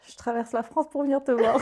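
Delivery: mock romantic film heroine; film-style declaration. Friend teasing with a line from the films, hammed-up declaration. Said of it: "comme dans les films".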